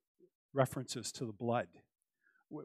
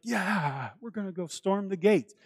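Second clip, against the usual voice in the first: eager Peter; 6 semitones higher than usual. Acted. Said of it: "Peter's like".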